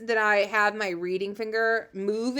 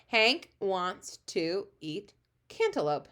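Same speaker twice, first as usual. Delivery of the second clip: stretched out very slowly; slow read-along; 4 dB quieter, slower than usual. Shown as a demonstration. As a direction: read each word slowly for the class. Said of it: "reading the sentence aloud".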